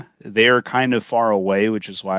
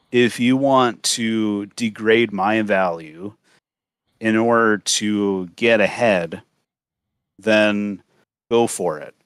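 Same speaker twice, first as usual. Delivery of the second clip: supervillain voice. Acted. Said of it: "that's why I have the supervillain voice".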